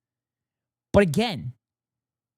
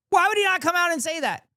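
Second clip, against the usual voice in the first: incredulous repeat; 11 semitones higher, faster than usual. Real, not acted. Streamer repeating question, exasperated.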